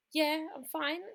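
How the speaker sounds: composed reassurance. Retold or imitated. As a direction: act as if nothing is wrong. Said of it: "Exactly how I'm speaking to you is exactly how I spoke to him".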